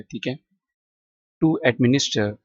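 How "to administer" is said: "administer" ending in "stuh", final R dropped; British-style "To administer" with no final R sound; silent R. Shown as a demonstration. Teacher showing that R is silent, "administer" said as ad-MIN-is-tuh. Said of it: "इसमें भी आर silent है".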